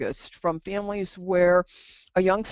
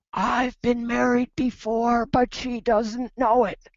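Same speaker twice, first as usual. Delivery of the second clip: high, hushed, confiding stage whisper; 5 semitones higher than usual. Retelling what a mother said in a first session: imitating a stage whisper. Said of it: "sort of like a stage whisper".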